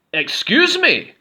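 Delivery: very high, slow, loud voice; a polite voice out of the dark. A narrator's reading. Unseen goblin calling from the cave, high slow. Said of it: "said a voice from the back".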